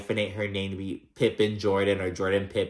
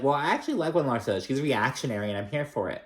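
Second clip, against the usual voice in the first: mock gushing; 4 semitones higher, faster than usual. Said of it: "gushing much".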